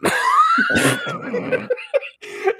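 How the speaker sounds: very high laugh; squealing laugh. Real, not acted. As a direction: shriek with laughter. Laughing at grandpa joke.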